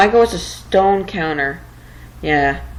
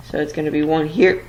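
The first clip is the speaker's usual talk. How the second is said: talking through hiccups; words broken by hiccups. Real, not acted. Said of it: "Got the hiccups".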